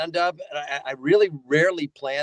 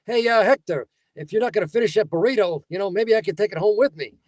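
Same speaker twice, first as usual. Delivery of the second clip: higher-pitched mooch character voice; Vito Filipponio; 4 semitones higher than usual. Acted. Store mooch eyes Hector's burrito, higher wheedling voice. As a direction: angle hesitantly for someone else's food. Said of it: "a guy named Vito Filipponio".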